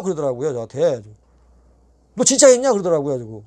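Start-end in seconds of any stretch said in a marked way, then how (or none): 2.2-2.7 높고 크게 치솟는 확인; 믿기지 않아 되묻기; 놀란 되물음. Retold or imitated. 형님이 놀라 되물음. (놀란 형님이 높이 되묻는 목소리)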